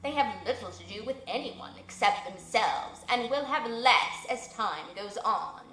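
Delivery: stately owl advising the widow; wise old owl. Acted. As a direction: speak as the solemn old owl giving counsel.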